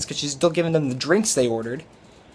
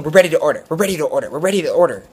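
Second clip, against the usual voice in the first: imitated impatient repeating; much faster than usual. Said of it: "looking at her going".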